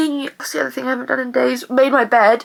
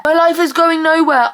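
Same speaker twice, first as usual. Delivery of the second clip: higher exasperated lament; exasperated wail; 4 semitones higher, 3 dB louder than usual. Real, not acted. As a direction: wail it out in frustration. Venting despair in a rant.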